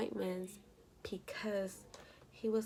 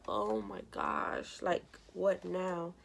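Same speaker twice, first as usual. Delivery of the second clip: retold exasperation; 2 semitones lower, much slower than usual. Retold dismay at another room change.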